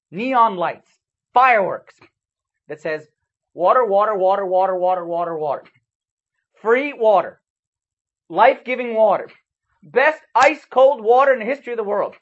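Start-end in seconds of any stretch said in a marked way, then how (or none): 3.5-12.2 loud, hyped-up sales call; excited loud advert for free water; sign advertising water. Pretend. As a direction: pitch it like a carnival barker.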